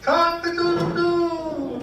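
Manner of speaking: high, slow, loud crowing cock-a-doodle-doo; horny rooster crow. Pretend. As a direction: crow like a lusty rooster, stretching it out. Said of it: "the cry of the horny chicken".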